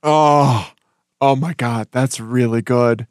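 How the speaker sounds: breathless and spent from laughing; catching breath after a laughing fit; after laughing hard. Real, not acted. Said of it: "my face hurts from laughing".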